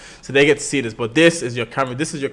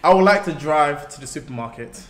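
British accent. Shown as a demonstration. Streamer giving co-host a line to copy, British accent. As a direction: model sentence in a British accent. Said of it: "Say it like a British woman".

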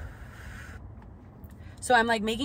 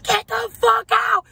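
much higher, louder, slower shriek; friend shrieking; 14 semitones higher, 8 dB louder, slower than usual. Retold or imitated. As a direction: screech it even harder than the mom. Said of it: "My best friend's saying".

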